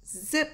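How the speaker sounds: quick, high zip noise; short sound-effect zip; imitated zip. Shown as a demonstration. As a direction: zip the word upward. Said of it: "Machine noises".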